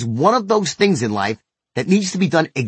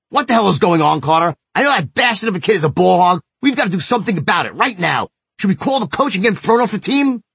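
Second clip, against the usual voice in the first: retold booming voice; 4 semitones higher, faster than usual. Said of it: "with my voice booming".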